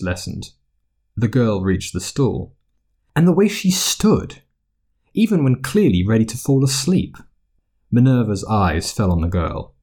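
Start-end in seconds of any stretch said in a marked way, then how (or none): 3.1-7.2 matron voice. Acted. Poppy remarks.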